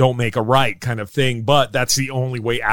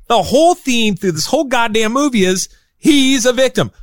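worked-up rant; 8 semitones higher than usual. Real, not acted. Podcast host ranting about Dracula, heated and high. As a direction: get fired up and let it rip.

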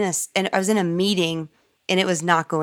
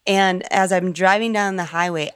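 usual speaking voice

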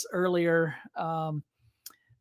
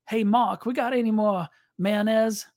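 put-on Cajun accent; 4 semitones higher than usual. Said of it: "this Cajun guy named Roy".

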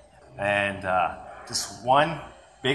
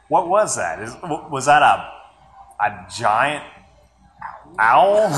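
bewildered; 4 dB louder than usual. Retold or imitated. Retold bewildered reaction.

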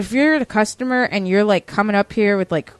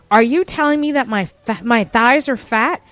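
offended customer; 3 semitones higher, 3 dB louder than usual. Retold or imitated. Customer to store clerk about her thighs, mock indignant. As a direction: imitate an affronted shopper.

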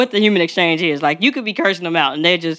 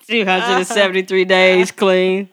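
awkward voice. Pretend. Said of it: "That was the awkward voice".

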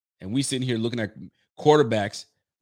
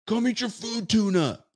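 high, sing-song call to a pet; tuna meme voice; 10 semitones higher than usual. Retold or imitated. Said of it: "If you guys remember that".

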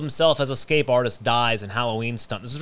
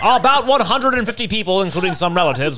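put-on old newscaster voice; 3 semitones higher than usual. Shown as a demonstration. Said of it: "should I read it like a old newscaster?".

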